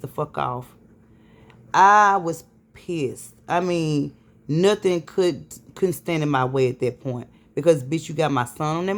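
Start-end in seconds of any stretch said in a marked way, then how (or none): 1.7-3.3 slow and loud, leaning on every word; emphatic pissed off. Real, not acted. Mother telling viewers about the ambulance, slow angry emphasis. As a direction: hammer home how angry she was. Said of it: "I was fucking pissed".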